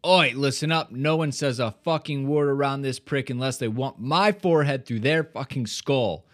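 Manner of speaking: lightly voiced angry Roy warning; Roy's gruff threat. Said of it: "and Roy goes".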